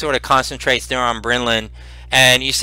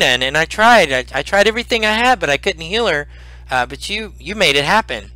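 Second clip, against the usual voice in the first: put-on raised, hesitant old man's voice; little old man; 2 semitones higher than usual. Humble old healer praising the visiting heroes, little old man voice. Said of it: "uh, little old man".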